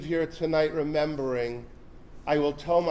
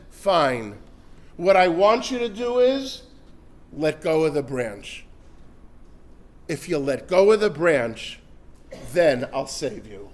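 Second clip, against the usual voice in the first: lower, measured divine voice; calm heavenly voice; 3 semitones lower than usual. Acted. The heavenly voice tells the man to let go, low and calm. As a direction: speak as God, steady and sure.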